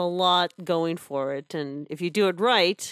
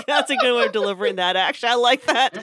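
laughing approval; 5 semitones higher, 5 dB louder, faster than usual. Retold or imitated. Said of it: "I was like".

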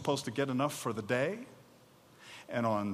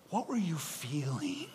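whisper; 7 dB quieter, slower than usual. Pretend. Intimate question to Moses.

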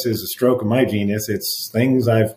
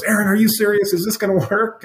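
much higher-pitched mock disbelief; retold incredulous question; 11 semitones higher than usual. Colleague mid live case questioning the advice, imitated incredulity. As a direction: imitate a doubtful colleague, voice shooting up.

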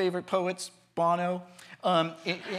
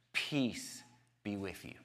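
softer, lower, spaced-out greeting; calm blessing; 7 semitones lower, 7 dB quieter, slower than usual. Retold or imitated. Jesus to frightened disciples, gently calm. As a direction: quietly settle frightened listeners.

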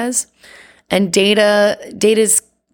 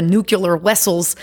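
lightly imitated Russian accent, v turned to w in "vessels"; slower than usual. Chekov asking strangers around San Francisco, mock Russian accent. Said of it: "like, this crazy Russian accent".

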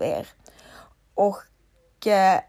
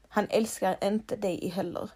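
"Han älskar inte dig heller" said much softer; soft repeat; 6 dB quieter than usual. Shown as a demonstration. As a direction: let "inte" sink in quietly. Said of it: "ska vara helt ärlig mot dig?". (tyst och allvarligt "inte")

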